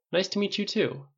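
warm smile. A narrator's reading. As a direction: greet a newcomer with a smile. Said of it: "said with a warm smile".

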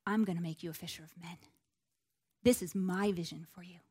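low, quiet, assured promise; gentle blessing. Acted. Jesus speaking destiny over Peter, quietly assured. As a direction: softly speak a calling over someone. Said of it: "he spoke life and destiny over Peter".

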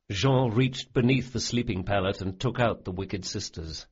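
plain reading voice

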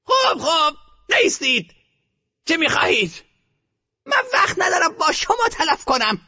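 put-on high, imperious old woman; loud orders. A narrator's reading. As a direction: brush them aside grandly. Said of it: "به صدای بلند دستور داد".

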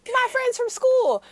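high, slow, whiny reply; whiny son. Retold or imitated. Retelling the drama, son answering his mother, mock whiny. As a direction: drag it out like a hurt kid. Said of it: "He said".

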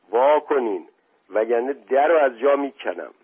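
thick-voiced brute. Butcher pounding at the door threatens guests, thick-voiced demand. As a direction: demand entry like a burly brute. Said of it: "صدای کلفت شیرعلی".

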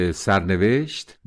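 سرنوشت said slowly, each syllable drawn out; weighty single word. Real, not acted. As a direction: linger on سرنوشت as the key word. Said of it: "حال این که نبود بلکه سرنوشت بود". (سرنوشت آهسته و کشیده)

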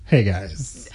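low, soft, dejected "Hey, guys."; sad and dejected. Acted. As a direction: greet them like all hope is gone. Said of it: "why do you sound so sad and dejected".

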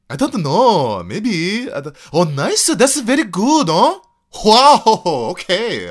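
put-on excited Korean-accented English. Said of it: "And my Korean, my Korean's, like, kind of okay".

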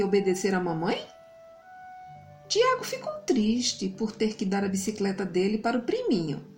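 put-on cheerful host signing off to kids; kids show host. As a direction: wrap up warmly like a TV host. Host wraps up for children.

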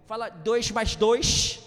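loud playful punchline; mock carioca doctor. Pastor joking about a carioca doctor, loud playful punchline. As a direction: deliver the joke with a lift. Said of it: "ele não fala trinta e três".

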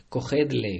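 loud hunting shout. Acted. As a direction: yell it at the mouse.

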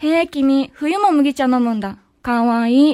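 understated earnest delivery, a little low; serious voice. Shown as a demonstration. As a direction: demonstrate the sweet line with a straight seriousness. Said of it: "真面目な声で言ったら". (少し低めの真面目な声で)

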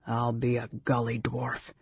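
soft, hushed amazement; breathed in awe. A narrator's reading. Big brother sees magical fire, hushed awe. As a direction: murmur it under the breath in wonder. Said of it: "Caramon breathed in awe".

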